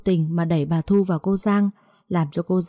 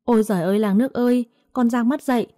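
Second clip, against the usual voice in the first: wailing cry, climbing higher; crying out for help; 5 semitones higher than usual. Acted. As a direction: she wails to the whole village. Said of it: "Bà Thu hét ầm lên".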